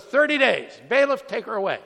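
loud, high, furious sentencing; retold hollering judge. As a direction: shout the sentence as an imitated angry judge. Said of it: "he hollers".

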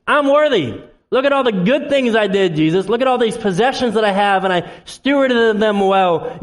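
lightly acted boaster, pitched high; self-righteous boasting. Person boasting to Jesus at heaven's gates, lightly self-righteous.

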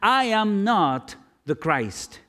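slow, weighty, every word pressed; emphatic denial. Retold or imitated. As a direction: plant each word firmly, no doubt allowed.

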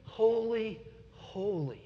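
high, hushed call that falls away; soft, reverent calling with pauses; seraphim calling out. Retold or imitated. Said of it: "here they call out to one another".

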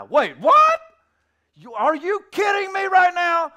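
high, shouted double take; loud incredulous outburst; outraged disbelief. Retold or imitated. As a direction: explode in mock astonishment. Acted outraged listeners.

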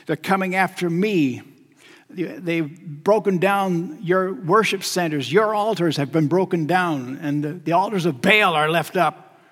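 a preacher voicing an anguished complaint, understated; Elijah's pained lament. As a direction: pour out a grievance, building a little toward the end. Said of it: "Elijah just pours out the pain in his heart".

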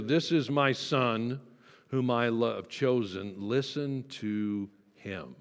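each phrase slowed and set apart, "Listen to him" drawn out; a solemn, deliberate reread; slow, weighty reading. Shown as a demonstration. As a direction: let every word of the verse land slowly. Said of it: "those words are astonishing".

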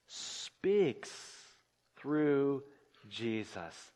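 breathy whisper of the still small voice; the voice that whispered to Elijah, whispered. Acted. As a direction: let "speaks" fall to a whisper.

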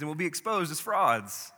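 agitated scheming. Acted. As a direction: argue like cornered leaders fearing the crowd. Leaders panic among themselves, voiced.

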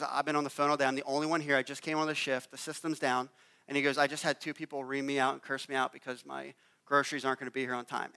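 quiet weary retelling of his day; upset young worker. Retold or imitated. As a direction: let a tired kid's hurt show lightly.

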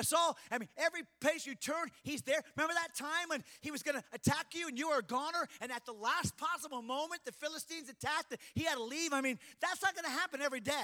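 lightly voiced fear, pitched a little up; pressing, insistent warning. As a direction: needle him as the voice of fear. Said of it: "That's what fear was saying".

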